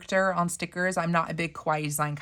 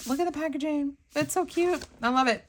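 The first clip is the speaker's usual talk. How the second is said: excited; 9 semitones higher than usual. Real, not acted. Cute packaging delights her.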